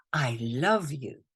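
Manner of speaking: slow tender affirmation; tender mantra. Shown as a demonstration. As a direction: say it gently, like a blessing. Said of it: "it goes very simply like this".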